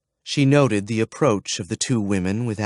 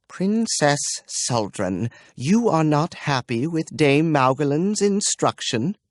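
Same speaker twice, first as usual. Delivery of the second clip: grating with effort; 5 semitones higher than usual. Acted. Dame holding back anger while questioning the princess. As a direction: force the words out with effort. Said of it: "spoke in a voice grating with effort".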